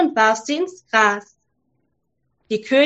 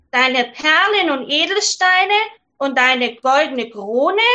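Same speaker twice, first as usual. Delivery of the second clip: frog; 3 semitones higher than usual. Acted. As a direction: wave the jewels away. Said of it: "Der Frosch antwortete".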